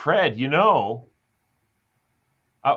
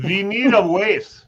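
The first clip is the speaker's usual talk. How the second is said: put-on German accent; 5 semitones higher, 6 dB louder, slower than usual. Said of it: "How about this?".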